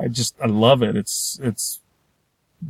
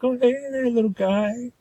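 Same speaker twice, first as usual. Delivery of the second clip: much higher and softer, friendly coo; nice tyrannosaur voice; 10 semitones higher, 4 dB quieter than usual. Retold or imitated. T-Rexes greeting the lost little dinosaur, high soft friendly coo. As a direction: sweet-talk the little guy, higher and softer.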